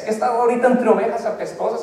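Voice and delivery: quick, chuckling through it; laughing. Acted. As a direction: rush it with a laugh. Laughing aside about smelly sheep.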